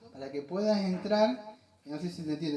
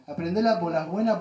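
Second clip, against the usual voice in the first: Argentine voseo; 7 dB louder than usual. Shown as a demonstration. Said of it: "te lo voy a decir en criollo".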